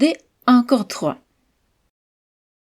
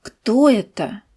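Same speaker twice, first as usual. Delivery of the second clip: Кто raised then falling, slow; stress on Кто. Shown as a demonstration. Teacher to students, slow stress on Кто. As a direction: voice up on Кто, down after. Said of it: "Écoutez et répétez après moi".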